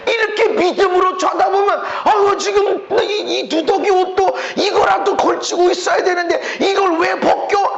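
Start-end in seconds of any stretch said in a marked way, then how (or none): 2.0-7.8 whining plea. Retold or imitated. Voicing clinging old self.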